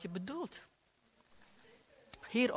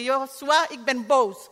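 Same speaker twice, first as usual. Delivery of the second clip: mock angry declaration; 5 semitones higher, 13 dB louder than usual. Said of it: "Ik zei".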